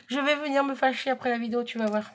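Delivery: plus fort, plus haut et plus vite, en menace pour rire; fausse menace. Acted. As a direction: relance la menace en riant à moitié. Menace reprise en riant. (à sa jumelle, pour la taquiner : menace faussement fâchée)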